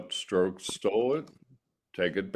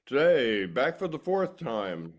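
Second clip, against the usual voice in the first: radio announcer; 3 semitones higher than usual. Real, not acted. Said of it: "Now I sound like a radio announcer".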